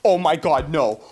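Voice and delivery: normal talking voice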